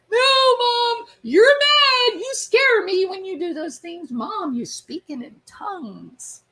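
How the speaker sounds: put-on high, loud little-kid voice pleading with mom; scared child voice. Children tell their angry mom she scares them, high child voice. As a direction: play the frightened kid protesting.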